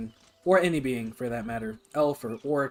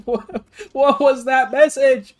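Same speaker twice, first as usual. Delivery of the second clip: loud slow disbelieving; stunned by what you read; shocked; 10 semitones higher, 11 dB louder, slower than usual. Real, not acted. Shocked at chat message.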